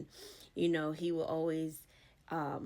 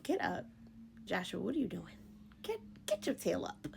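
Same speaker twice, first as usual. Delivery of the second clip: God scolding; 2 semitones higher, 3 dB quieter than usual. Retold or imitated. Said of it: "he said".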